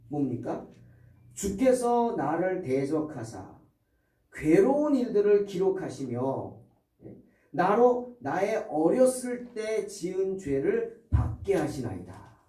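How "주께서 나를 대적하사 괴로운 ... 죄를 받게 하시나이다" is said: slow, grave recitation; solemn scripture reading. Acted. Preacher reading Job's words to the congregation, slow and solemn. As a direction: read Job's lament slowly and gravely.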